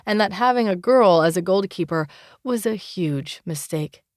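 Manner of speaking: lightly voiced young rival, cocky and threatening; a hint of a cocky rival swearing to crush her; boastful rival.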